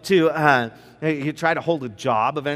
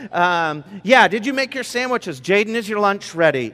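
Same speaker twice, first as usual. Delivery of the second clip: put-on herd the kids out the door in a rush; frantic morning dad; 3 semitones higher, 5 dB louder than usual. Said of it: "sounds maybe a little bit like this".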